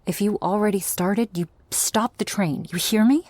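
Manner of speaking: firm demand. Acted. Demanding a promise.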